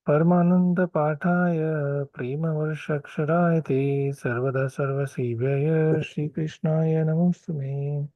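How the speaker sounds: slow, measured devotional chanting; slow prayer recitation. Acted. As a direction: draw out each word reverently.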